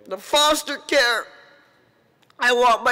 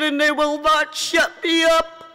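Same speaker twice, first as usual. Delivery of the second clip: raised defiant cry, real grief behind it; defiant shout. Real, not acted. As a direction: shout it so nobody can silence you. Defiant vow at grieving rally.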